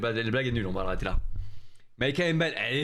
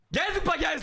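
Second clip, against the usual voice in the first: mocking sing-song; 11 semitones higher than usual. Repeats viewers' word mockingly.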